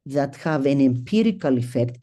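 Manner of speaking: lecturer's stress on "empirical". Shown as a demonstration. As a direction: lean on "empirical" in "that have an empirical effect" so it stands out from the rest of the line. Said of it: "emphasize the word empirical".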